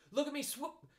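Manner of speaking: very high, excited squeak; squeaky little Roo. A narrator's reading. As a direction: squeal it like a proud small child. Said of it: "squeaked Roo".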